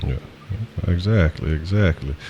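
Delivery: distant, muffled voice; speaking off mic, muffled. Real, not acted. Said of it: "they say it sound like a little muffled".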